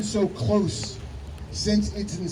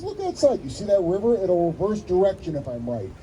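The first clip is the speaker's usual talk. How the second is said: mild frustration. Retold or imitated. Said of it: "Now he's getting frustrated".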